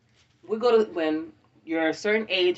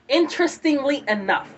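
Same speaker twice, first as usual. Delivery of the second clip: excited; 7 semitones higher, 5 dB louder than usual. Retold or imitated. Building up her theory.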